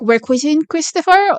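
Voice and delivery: incredulous rising question; stunned, pitch jumping up; shocked disbelief. Retold or imitated. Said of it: "And I'm like".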